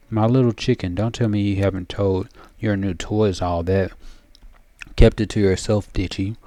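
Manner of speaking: lightly voiced wheedling old crone; a cunning grandmother playing innocent; sly old hag.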